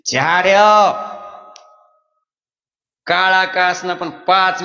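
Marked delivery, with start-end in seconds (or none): 0.1-0.9 blunt village order. Retold or imitated. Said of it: "आपल्या अडाणी माणसानं काय म्हणलं".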